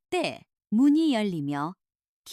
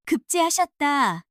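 slow, louder announcing call; calling out news; 4 dB louder than usual. Acted. A villager announces the young master passed, calling out. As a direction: proclaim it to the street.

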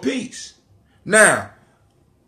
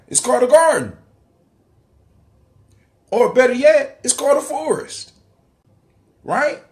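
fired-up preaching; 7 semitones higher than usual. Real, not acted. Excited preaching on forest.

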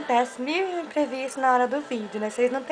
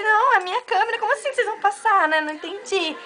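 indignant protest; 6 semitones higher than usual. Retold or imitated. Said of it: "Eu falei".

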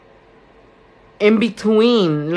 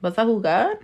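scolding her son. Retold or imitated. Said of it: "And I'm like".

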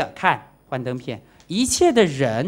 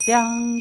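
a higher single ding like a struck chime; imitated chime ring; 7 semitones higher than usual. Shown as a demonstration. Showing the audience the chime's ring, a single ding. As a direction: sound it like the bell struck once. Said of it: "声音像这样子嘛".

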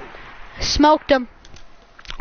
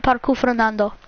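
Parkour Fernando in a Spanish accent, lower; 4 semitones lower, 3 dB quieter than usual. Shown as a demonstration. Player confirming how the park name is supposed to be said, Spanish accent. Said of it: "That's how you're supposed to say it".

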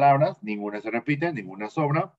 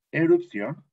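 Erupción with the stress on "ó"; stress on final O; 6 semitones higher, 4 dB louder, slower than usual. Shown as a demonstration. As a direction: punch the last syllable of "Erupción", higher. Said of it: "Con acento en la O".

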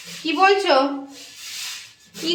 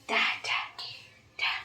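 soft breathy prompting whisper; 15 dB quieter than usual. Real, not acted. Whispering to the baby so it repeats, soft.

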